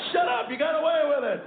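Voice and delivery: a dad cuts off his son's confession; mock shout. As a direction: snap back in jest.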